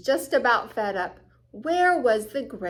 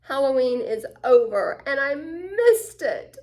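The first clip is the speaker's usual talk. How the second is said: frustrated; 5 semitones higher, 3 dB louder than usual. Acted. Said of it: "couldn't contain her frustration".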